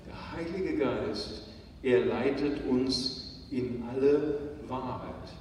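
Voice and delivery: normal talking voice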